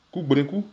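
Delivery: Koubrekou said with a clear R, not an L. Shown as a demonstration. Teacher models Koubrekou with an R for learners. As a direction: say Koubrekou with a tapped R in the middle. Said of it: "c'est plus un R, hein, que un L".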